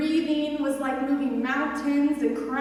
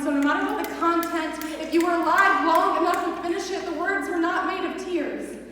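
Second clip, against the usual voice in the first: building intensity; 3 semitones higher than usual. Acted. Poem builds to a climax.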